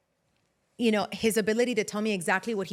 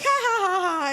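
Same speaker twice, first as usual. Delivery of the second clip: high, loud forced laughter through tears; manic laugh; 9 semitones higher, 4 dB louder, faster than usual. Retold or imitated. Mom laughing while wiping her tears, high and manic. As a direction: laugh like a crying psychopath. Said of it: "I look like a psychopath".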